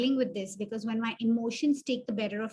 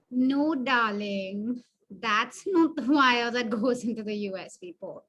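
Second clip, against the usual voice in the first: sarcastic. Shown as a demonstration. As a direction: talk down to him with sarcasm.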